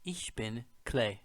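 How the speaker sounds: Ich bin Clay, slow and clear; slow model German. Shown as a demonstration. Teacher introduces himself slowly in German. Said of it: "we would say".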